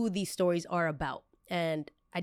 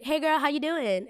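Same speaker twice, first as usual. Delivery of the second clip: put-on high, lilting girly hello; chatty phone greeting, pitched way up; 9 semitones higher than usual.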